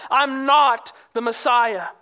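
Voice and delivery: "I'm not the Messiah" slowed, with a hard hit on "not"; forceful denial. Retold or imitated. Preacher translates John's answer, a firm denial. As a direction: punch "not", then let "the Messiah" fall. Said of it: "strong wording with force".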